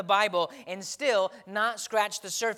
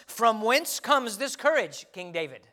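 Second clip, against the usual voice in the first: Puritan preacher; 3 semitones higher, 5 dB louder than usual. Pretend. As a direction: declaim it like a Puritan of four centuries ago. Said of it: "if I were a Puritan preacher".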